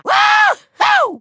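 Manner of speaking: very high celebratory cheer; gleeful whoop. Acted. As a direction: whoop with villainous glee. Villain cheering his own success.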